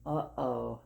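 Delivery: low, hushed worried uh-oh. Acted. Parent warning the child the bear is waking, hushed. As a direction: whisper it like trouble is coming. Suspense after the sneeze.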